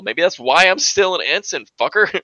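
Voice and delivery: high, fast annoyed voice; exasperated Mariner. Retold or imitated. Host voicing Mariner snapping at her friend, high and fast. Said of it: "She's like".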